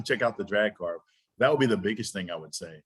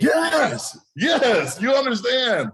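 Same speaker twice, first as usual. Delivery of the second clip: high, loud shout of delight in a New Orleans drawl; excited shout; 5 dB louder, much slower than usual. Real, not acted. Host thrilled the guest set up the gym first, excited shout. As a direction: yell it like you've found a kindred spirit.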